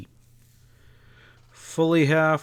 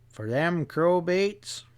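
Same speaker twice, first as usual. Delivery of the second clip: slow, higher, unhurried country drawl; placid drawl; 5 semitones higher, slower than usual. Acted. Stableman unbothered by glaring Ezra, placid drawl. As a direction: drawl it out like nothing could bother you.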